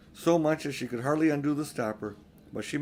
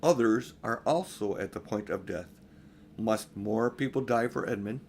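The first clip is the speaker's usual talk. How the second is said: graver voice; 3 semitones lower than usual. Acted. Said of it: "said Aslan in a graver voice".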